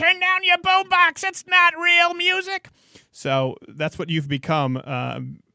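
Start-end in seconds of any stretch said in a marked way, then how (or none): 0.0-2.7 put-on very high, shrill, loud, cranky old-man yell. Teasing the other speaker about judging, imitating an old man yelling at kids. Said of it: "that old man who just yells at the kids in the street".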